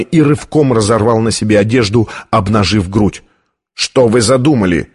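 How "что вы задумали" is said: usual speaking voice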